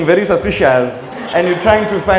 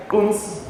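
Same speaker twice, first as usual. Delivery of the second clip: turbulence bump sound; 2 semitones higher, 6 dB quieter than usual. Shown as a demonstration. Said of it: "It's fine if it's like".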